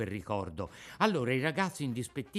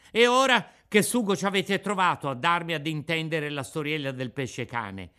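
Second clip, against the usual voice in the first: sulky, raised, sharper voice of a cross puppet; peevish retort; 4 semitones higher, 6 dB louder than usual. Acted. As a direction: snap back in a fit of pique. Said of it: "disse loro con voce di bizza".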